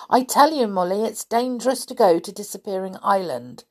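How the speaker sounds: crossly insisting, loud on tell; a cross boy warning his friend; Binky scolds Molly, crossly and loudly. Acted. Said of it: "said Binky crossly".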